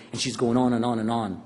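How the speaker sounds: ordinary talk, nothing marked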